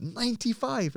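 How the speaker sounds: high stunned disbelief; shocked. Retold or imitated. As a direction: ask it as if you can't believe it. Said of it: "I went".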